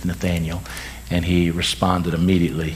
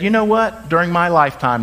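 excited exclaim; 8 semitones higher than usual. Retold or imitated. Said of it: "Abraham said".

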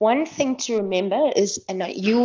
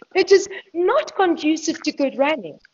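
laughing through words; 9 semitones higher than usual. Real, not acted. Laughing at her race tears.

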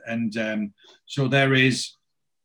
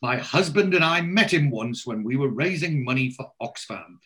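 higher, scandalised society-lady voice; gossiping posh lady; 4 semitones higher, 3 dB louder than usual. Retold or imitated. Lady telling of the newspaper scandal, gossipy and affected.

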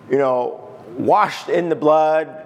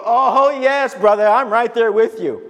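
high opening "oh, yes"; acted fervent fellow feeling; emphatic agreement; 4 semitones higher than usual. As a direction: agree wholeheartedly, as if testifying. Acts out readers agreeing with Paul.

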